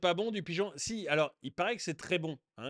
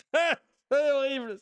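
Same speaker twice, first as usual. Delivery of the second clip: horrified; 12 semitones higher, 10 dB louder, much slower than usual. Real, not acted. Disgust at pigeon eating.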